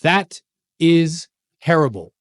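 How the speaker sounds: slow, word-by-word verdict; grave reproach. Retold or imitated. Coach confronting him on Zoom, gravely reproachful. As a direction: land each word separately and heavily, like a stern coach. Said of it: "looked right into my soul".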